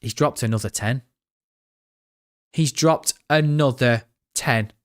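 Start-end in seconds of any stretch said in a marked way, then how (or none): 2.5-4.7 slowed right down, stunned by the donation; to his chat, repeating the donation slowly in disbelief. Real, not acted. Drag each word out, amazed.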